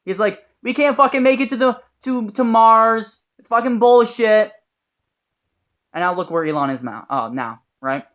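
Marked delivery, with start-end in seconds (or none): 0.6-4.5 higher, louder mock disbelief; scornful doubter. Doubter talks down Elon Musk's Mars dream, mock scornful. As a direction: imitate a loud skeptic dismissing the whole plan.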